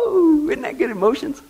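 high mock whoop; mock woo. Host mocking the kicking lady with a whoop. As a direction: whoop like a fake revivalist.

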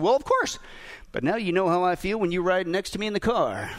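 husband's calm, unruffled comeback; imitated composure after the outburst; calm reply. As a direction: settle back down and answer evenly. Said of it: "the husband just calmly replied".

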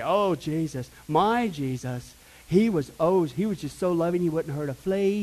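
drawn-out attempt at an English accent; badly faked English accent; mock English accent. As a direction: imitate pious people with a put-on English accent. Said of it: "I couldn't do that English thing".

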